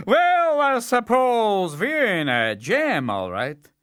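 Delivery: high, slow and sheepish; the Tsar. Acted. Tsar admitting the trouble, slow and sheepish. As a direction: admit defeat ruefully.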